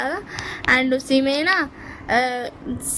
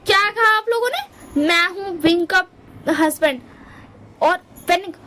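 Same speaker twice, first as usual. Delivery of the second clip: jealous outrage; 4 semitones higher than usual. Retold or imitated. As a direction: claim your husband back, indignant and shrill-pitched. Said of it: "ध्यान नहीं बोलता". (अपने पति पर हक़ जताती ऊँची, गुस्से भरी आवाज़)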